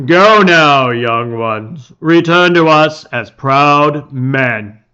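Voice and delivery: solemn village chief. Acted. Father addresses the gathered village, slow and ceremonial. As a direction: proclaim it like a proud chief before his people.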